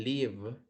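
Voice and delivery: 'lived' broken up, liv, then a separate D sound; correct pronunciation demo. Shown as a demonstration. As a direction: hold 'liv' and add only a D to finish 'lived'. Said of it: "con el sonido de D al final". ('lived' bien pronunciado: liv, con D al final)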